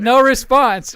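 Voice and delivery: grin you can hear in "no response"; smiling voice. Real, not acted. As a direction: say "no response" through a wide smile. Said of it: "You can hear the smile in your voice".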